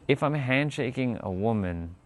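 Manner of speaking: ordinary talk, nothing marked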